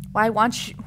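normal talking voice

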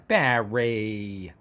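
low, knowing Barry; fond old-friend tone. Shown as a demonstration. Addresses Barry as a dear old friend. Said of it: "Like we're old friend".

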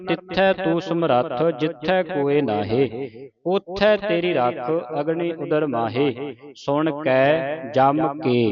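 slow, measured Gurbani recitation; deliberate teaching recitation of sacred verse; scripture recitation. Shown as a demonstration. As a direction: recite slowly, drawing out line endings.

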